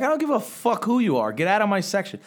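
retold yell. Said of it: "I'm like".

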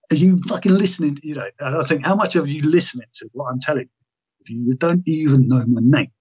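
acted indignation, pressing the point; exasperated retold challenge. Patient questioning whether therapist listens, exasperated.

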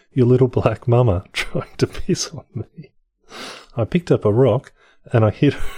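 laughing through a rhyme. Pretend. Reading a dirty rhyme aloud, laughing through it. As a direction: recite it while cracking up. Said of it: "posh accent".

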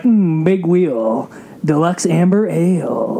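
slow, smooth ad-read; radio announcer voice. Shown as a demonstration. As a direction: purr it like a beer commercial. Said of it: "Do you have a radio voice".

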